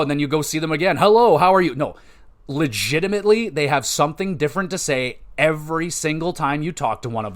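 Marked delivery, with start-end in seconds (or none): 1.0-1.7 louder, higher mock hello; canned repeat greeting. Game character greets a returning player, mock-cheery and canned. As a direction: parrot a stock character greeting.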